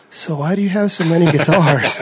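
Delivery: laughing through the question. Retold or imitated. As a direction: chuckle while asking it.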